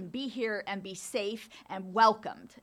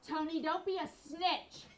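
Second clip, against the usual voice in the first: higher, laughing mock-stern mother; a hint of a stern mother scolding her daughter; dead serious mother; 8 semitones higher than usual. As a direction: scold like a proper old lady, half-laughing. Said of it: "Like, s-, dead serious".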